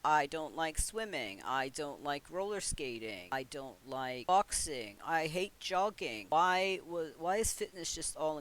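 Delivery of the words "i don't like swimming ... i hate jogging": Sim listing dislikes. Pretend. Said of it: "given you specific things like".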